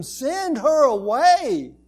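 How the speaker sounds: urging demand. Acted. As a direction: press him, almost shouting. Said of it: "They were urging Him".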